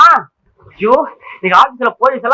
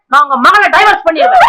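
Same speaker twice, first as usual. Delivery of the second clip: angry threat; 4 semitones higher, 3 dB louder than usual. Acted. Threatens father-in-law with divorce.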